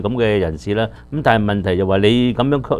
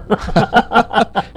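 laughing; 11 semitones higher than usual. Real, not acted. Caller's story ends in a laugh.

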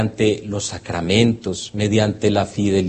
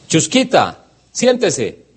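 higher, calling a dog to sit; child's command; 5 semitones higher, slower than usual. Retold or imitated. A little boy orders the dog to sit, higher.

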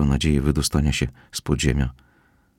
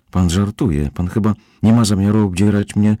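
raised frightened protest, a bit louder; yelled; 5 semitones higher, 4 dB louder than usual. Acted. Kozłowski tied up, protesting to Petersen in a raised voice. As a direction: push the words out in alarm. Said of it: "wrzasnął Kozłowski".

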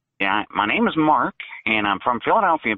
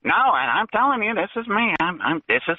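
fake voice; 6 semitones higher than usual. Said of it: "you're doing a fake voice".

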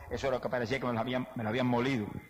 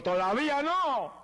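much higher, louder, slow booming divine voice; voice of God; 11 semitones higher, 4 dB louder, slower than usual. Retold or imitated. God answering the sick man's prayer, booming and slow. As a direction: proclaim it slowly like God answering from above. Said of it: "oí la voz de Dios".

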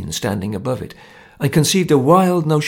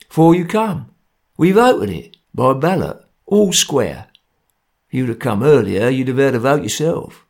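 lightly voiced stern Cockney ringleader; grim gang enforcer; 3 dB louder than usual. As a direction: lay down the law, a touch menacing.

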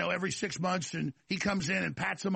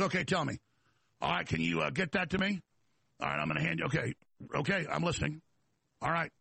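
imitating a man suddenly getting down to business; retold serious tone; 2 semitones lower, faster than usual. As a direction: act out a serious, businesslike listener. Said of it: "He comes back real serious".

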